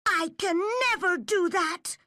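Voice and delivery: put-on high, loud, stubborn girl; firm refusal. A narrator's reading. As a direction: dig in and refuse. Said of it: "said Anne firmly".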